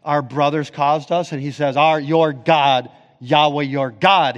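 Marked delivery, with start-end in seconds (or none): 1.8-4.3 louder and slower "your God"; emphatic. Shown as a demonstration. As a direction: lean into "Yahweh, your God". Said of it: "exact parallel".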